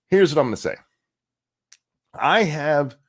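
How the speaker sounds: a hushed, unvoiced aside; whisper. Real, not acted. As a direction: lean in and whisper it. Confiding his real opinion.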